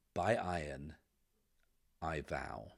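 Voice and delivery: grudging vow through gritted teeth; forced out through clenched teeth. Acted. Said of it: "through gritted teeth".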